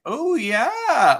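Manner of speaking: mock a Minnesotan's drawn-out vowels; Minnesotan accent. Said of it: "what other stereotypes were you expecting".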